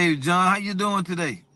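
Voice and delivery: upbeat greeting. Shown as a demonstration. Caller greeting John by first name, upbeat. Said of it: "I automatically say".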